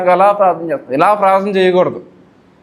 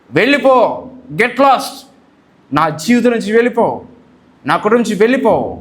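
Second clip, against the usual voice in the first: higher, forceful order to get out; firm command; 3 semitones higher than usual. Shown as a demonstration. Preacher showing the right way to rebuke the devil, commanding. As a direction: drive him out with authority. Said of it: "ఎదిరించాలి".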